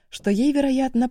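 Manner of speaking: usual speaking voice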